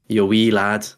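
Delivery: loud, half-hearted Scottish attempt; attempted Scottish accent. Shown as a demonstration. Nervous host put on the spot by co-host, attempted Scottish. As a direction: have a shaky-confidence go at a Scottish accent. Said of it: "Give me your best Scottish accent".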